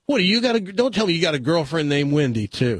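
hey, hey pitched high, eager tourist; excited tourist. Acted. Joke voices the excited tourist.

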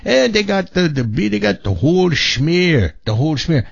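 imitating a German-accented radio host; fake German accent. Host recalling a radio personality's catchphrase, fake German accent. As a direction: put on a hammy German accent. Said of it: "did a great fake German accent".

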